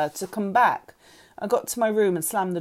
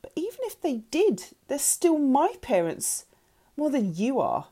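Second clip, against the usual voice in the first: yelled retort; 7 semitones higher than usual. A narrator's reading. Girl throwing it back at birth mother, defiant. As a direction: start high and insistent, then land it firmly. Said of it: "I yelled".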